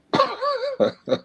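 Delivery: high-pitched burst of laughter. Real, not acted. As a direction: crack up at your own remark. Laughs at own fire-breathing remark.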